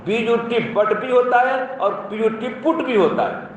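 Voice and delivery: बीयूटी said "but" with short a, पीयूटी said "put" with short u; contrasting pronunciations. Shown as a demonstration. Teacher contrasts but and put for the class. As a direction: say but as "bat" and put as "put", spelling each out first. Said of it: "English में कोई नियम नहीं चलता".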